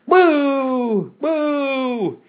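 high, drawn-out boos; crowd booing. A narrator's reading. Mob turns on the professor, long high booing.

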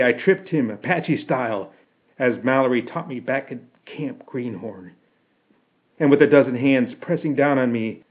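plain reading voice

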